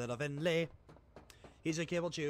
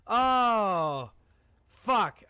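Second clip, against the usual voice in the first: manic yelling; 7 semitones higher, 10 dB louder, much slower than usual. Real, not acted. Continued frantic outburst.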